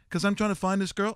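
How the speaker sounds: put-on a light New York accent, Seagal style. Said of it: "He was more like New York".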